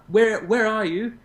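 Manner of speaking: high, slow put-on voice; mock phone caller voice; imitating a caller. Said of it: "and he says".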